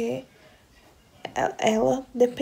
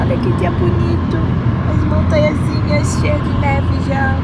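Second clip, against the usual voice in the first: excited; 3 semitones higher, 7 dB louder than usual. Real, not acted. Admiring beautiful day.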